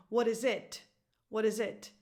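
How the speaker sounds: "what is it" with wrong stress on final "it". Shown as a demonstration. Teacher shows learners the wrong music, stress on IT. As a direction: land the question on "it". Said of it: "putting a stress on it".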